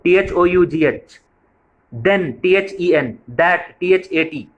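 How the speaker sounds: slow, letter-by-letter spelling of टीएचईएन. Shown as a demonstration. Teacher to parents, spelling words slowly letter by letter. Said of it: "टीएच से दौ होता है".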